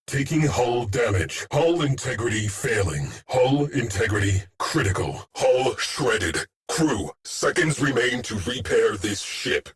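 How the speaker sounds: urgent alarm. Acted. Officer warning crew the hull is failing, urgent alarm. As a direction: sound the alarm with mounting urgency, still in command.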